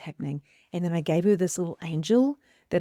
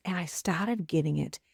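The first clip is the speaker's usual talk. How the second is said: ordinary talk, nothing marked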